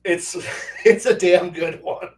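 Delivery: laughing through the praise; amused, emphatic. Real, not acted. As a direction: chuckle it out slowly.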